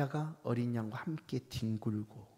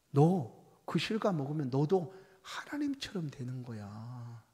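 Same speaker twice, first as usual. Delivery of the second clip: devil tempting; slower than usual. Acted. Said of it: "와서 얘기합니다".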